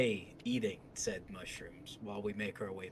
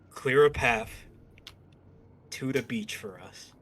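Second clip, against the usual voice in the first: commanding; 6 dB louder, slower than usual. Acted. Threat with dagger at throat.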